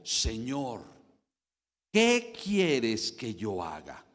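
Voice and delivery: low, slow, hushed and trembling plea; trembling and fearful. Retold or imitated. Pablo, thrown to the ground, asks the Lord fearfully. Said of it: "temblando y temeroso".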